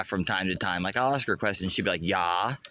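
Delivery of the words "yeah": a hint of a German accent on yeah; lightly German-accented yeah; mock German yeah. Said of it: "almost in, like, a German accent".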